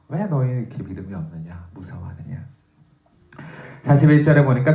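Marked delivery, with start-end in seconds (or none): 0.1-2.4 soft, low rebuke. Retold or imitated. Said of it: "예수께서 꾸짖으시는 거죠".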